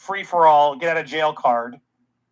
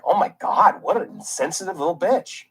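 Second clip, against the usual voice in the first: imagined reaction. Retold or imitated. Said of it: "if you just see, like".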